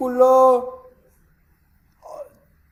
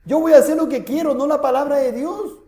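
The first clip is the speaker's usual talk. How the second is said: higher, mocking voice of the stubborn king; defiant king; 5 semitones higher than usual. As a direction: play the king brushing off God's word. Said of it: "Le está diciendo". (el rey terco se burla de la advertencia)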